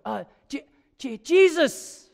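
a bolder second try after a timid one. Retold or imitated. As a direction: clear your throat and try harder. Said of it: "clears his throat with a bit more gusto".

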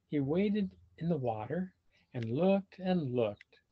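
put-on lively read-aloud for children; animated storybook reading; story narration. A narrator's reading. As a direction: tell it like a picture book to kids. Reading picture book aloud.

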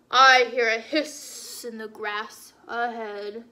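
big beast noticing something; wary Gruffalo. Acted. Gruffalo hears snake.

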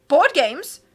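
incredulous rising question; can't believe the idea; astonished. Acted. Captain hearing Fiona's suggestion, astonished. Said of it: "said in astonishment".

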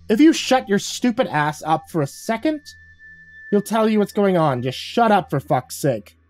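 lightly voiced contemptuous woman; woman's voice. A narrator's reading.

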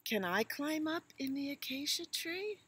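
high, hopeful little elephant; high child voice. Acted. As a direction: plead like an eager calf.

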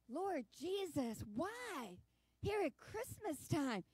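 slow, soft, hushed plea; quiet grieving prayer. Retold or imitated. Alone on the sofa praying to God, hushed grief. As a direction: pray under your breath in grief.

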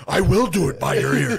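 high, very loud mock retort; imitated overexcited, stubborn holler; Philip Rivers yelling back. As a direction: shout defiantly through amusement. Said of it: "He's like".

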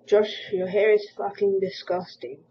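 slow, loud sneering read of the comment; loud mocking read. Reading a hate comment aloud.

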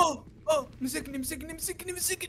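high, soft frightened cries; panicked whimper. Real, not acted. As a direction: whimper like you're caught. Caught by monster.

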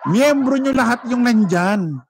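laughing repeat. Real, not acted. Vlogger repeating that all attendees are members, slow laughing.

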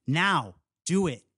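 slow, drawn-out command, swooping in pitch; restrained scream. A narrator's reading. Lou orders kids to vote themselves dead, restrained slow scream. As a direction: stretch each order without real volume. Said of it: "she screams".

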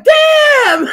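loud, laughing shocked yelp; surprised exclamation. Retold or imitated. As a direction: blurt it out in shock. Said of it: "She was like".

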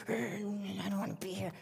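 the teacher quietly imitating Joshua's sulk; sulky child. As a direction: lightly voice a pouting kid at the door. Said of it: "he would come in every week angry".

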